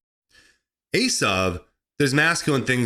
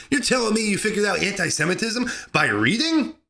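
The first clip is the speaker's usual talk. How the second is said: laughing disbelief; 6 semitones higher than usual. Acted. Laughing at his own acted disbelief.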